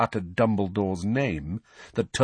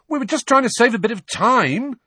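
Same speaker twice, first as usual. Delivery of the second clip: Fred voice; 14 semitones higher, 6 dB louder than usual. A narrator's reading. Fred defending himself.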